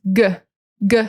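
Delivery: "g" as a short guh; very short sound. Shown as a demonstration. Teacher isolating the first sound of guitar, very short. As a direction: clip "g" to a tiny guh. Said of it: "The sound is very short".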